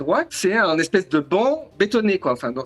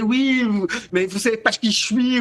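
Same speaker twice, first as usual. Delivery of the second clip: baratin arrogant; 4 semitones higher than usual. Retold or imitated. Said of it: "je commence à baratiner".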